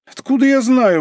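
flustered exclamation; exclaiming. A narrator's reading. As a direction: throw up the question in protest. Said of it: "воскликнул Капелевич".

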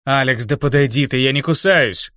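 affected, drawn-out teasing; mannered drawl. A narrator's reading. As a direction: drawl it like a preening showman. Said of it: "манерно протянул Мессия". (манерно, нараспев)

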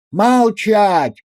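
loud barked order; shouted command. A narrator's reading. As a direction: cut her off with a shout. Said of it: "крикнул Анискин". (громкий окрик)

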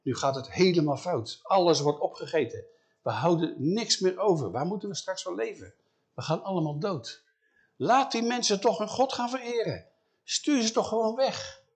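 mildly worried pleading that builds up high; worried servants. Acted. Servants urge Pharaoh, rising worried pleading. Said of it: "die worden ongerust".

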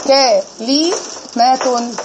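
كلمة stretched very slowly with full case ending, kalimatun; كلمة drawn out syllable by syllable ending in -tun; full classical ending. Shown as a demonstration. Teacher reciting the Quranic example to the class: كلمة with full ending. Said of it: "هناخده مثال على ذلك".

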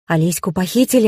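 usual speaking voice

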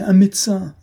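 high, loud scream for a doctor; desperate shout. A narrator's reading. Lady screaming for a doctor, desperate and loud. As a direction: scream it out to the crowd. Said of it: "un cri sinistre, déchirant".

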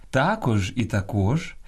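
також stressed first on ТА, then on КОЖ, slow; також shown with first, then last syllable stressed; double stress. Shown as a demonstration. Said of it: "двояке наголошування нормативне".

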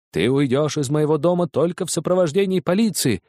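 father threatening his son; angry shout. Acted. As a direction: threaten him with the police. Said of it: "кричал я, обезумев от горя и гнева".

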